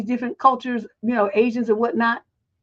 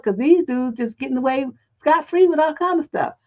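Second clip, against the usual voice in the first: ordinary talk, nothing marked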